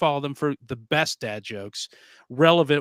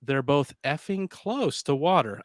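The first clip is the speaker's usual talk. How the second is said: censored; slower than usual. Shown as a demonstration. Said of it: "I can if I censor it".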